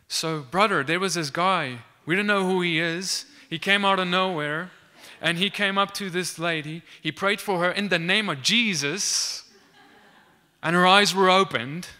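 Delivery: loud, emphatic retelling of a miracle; excited eyewitness. Retold or imitated. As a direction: imitate a local proclaiming astonishing news. Local man recounts the miracle.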